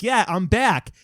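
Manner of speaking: high, mildly excited mock cheer; excited comeback. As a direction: pipe up as the returning nobody. Acting out man snapped back.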